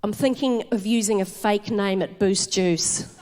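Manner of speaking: mock serious son. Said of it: "as if he thought he was committing identity fraud".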